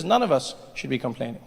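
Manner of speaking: normal talking voice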